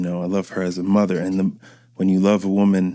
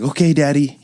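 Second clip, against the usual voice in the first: a touch higher, lightly voiced small child; meek little kid; 6 semitones higher than usual. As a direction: answer like an obedient little boy. Son giving in to dad.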